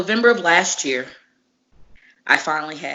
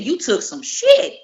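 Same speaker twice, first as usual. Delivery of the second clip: laughing while quoting; 9 semitones higher, 6 dB louder, slower than usual. Retold or imitated. Lance praising his match.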